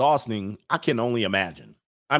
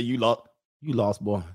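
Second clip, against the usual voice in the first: lightly voiced Mississippi local; Mississippi accent. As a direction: question the stranger with a hint of Mississippi accent. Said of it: "So he said".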